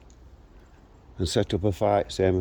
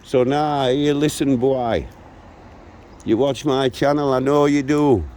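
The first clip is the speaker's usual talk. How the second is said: direct warning; 2 semitones higher than usual. Real, not acted. Vlogger addresses the young man who watches his channel, angry warning. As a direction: square up and warn him off.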